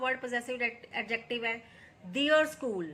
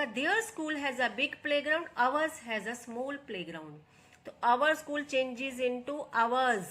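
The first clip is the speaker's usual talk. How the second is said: very slow, every word laid out for students; slow dictation read; much slower than usual. Shown as a demonstration. Teacher reading the example to her students, slow and deliberate. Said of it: "teacher reads transformed sentence".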